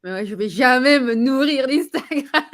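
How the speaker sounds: slow, mock-outraged rejection with a laugh; indignant disbelief. To her coach, scoffing at being fed by Instagram, mock indignant. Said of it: "J'étais en rejet complet".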